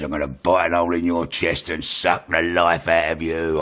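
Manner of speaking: imitated menacing threat; voice from hell. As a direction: threaten him like something out of hell. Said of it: "it just sounded like it came from hell".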